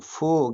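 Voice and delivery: फो held on its vowel; isolated syllable. Shown as a demonstration. Teacher having students repeat along, फो sounded out. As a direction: say फो alone, lengthened. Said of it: "तो आप मेरे साथ बोलिएगा".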